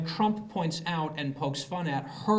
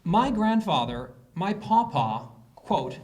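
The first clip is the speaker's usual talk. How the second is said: slow, louder deadpan quote; quoting her; 3 semitones higher, 3 dB louder, slower than usual. Retold or imitated. Comedian reading Warren's quote slowly, louder and deadpan. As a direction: read her words slowly and pointedly. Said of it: "The following words are her words".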